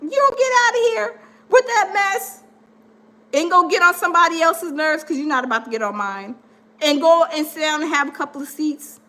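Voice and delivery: dismissive telling-off, shooing him away; a sassy put-down to a controlling man; sassy brush-off. Retold or imitated. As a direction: send him packing with attitude.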